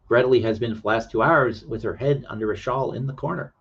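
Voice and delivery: lightly hammed-up French accent; bad French accent. Reading of a girl under a shawl, in mock French accent. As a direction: read it with an amateur French accent. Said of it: "read in a French accent".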